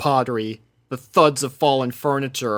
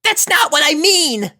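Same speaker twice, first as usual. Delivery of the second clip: high, loud, pressing back; insistent Rainbow; 6 dB louder than usual. Acted. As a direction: cut her off, urgent. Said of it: "pressed Rainbow".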